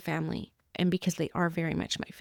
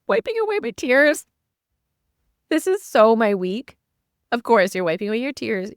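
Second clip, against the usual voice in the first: high, louder laughing self-mockery; laughing at herself; 5 semitones higher, 8 dB louder than usual. Real, not acted. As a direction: laugh through the watery eye. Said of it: "I just poked myself in the eye".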